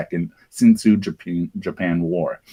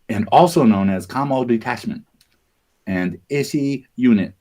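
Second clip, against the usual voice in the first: put-on Chinese accent; 2 semitones higher than usual. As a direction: read the names with a light Chinese accent. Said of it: "I love your little Chinese accent there".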